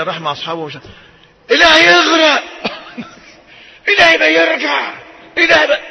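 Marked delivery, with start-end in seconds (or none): 1.5-5.8 very high, loud shrieking curse; hammed-up cursing mother. Preacher mimicking a mother cursing her son, loud and high. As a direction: wail it like an angry mother.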